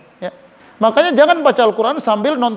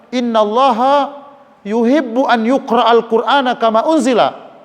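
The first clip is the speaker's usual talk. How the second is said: slow hadith recitation; slower than usual. Acted. Preacher quoting the Prophet to the congregation, slow measured recitation. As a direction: stretch each Arabic word out slowly.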